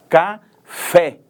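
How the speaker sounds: Café broken into loud syllables, FÉ stressed; stress on last syllable. Shown as a demonstration. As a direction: pause after Ca, then hit FÉ. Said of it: "ela é pronunciada mais fortemente". (Café separado em sílabas, com ênfase no FÉ)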